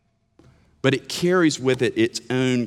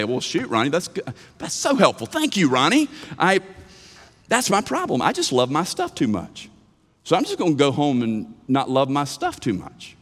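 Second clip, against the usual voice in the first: mock listener; 3 semitones higher than usual. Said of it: "if you listen to this sermon and say".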